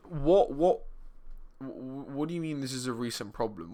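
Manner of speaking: stammering mock disbelief; lightly acted stuttering bewilderment; imagined baffled viewer. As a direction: play a viewer tripping over the question in surprise. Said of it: "Now, you might be thinking".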